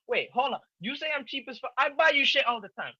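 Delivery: high, loud mock outrage; indignant yelp in defense; indignant protest. Real, not acted. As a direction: rise up offended at the insult. Indignant at being called cheap.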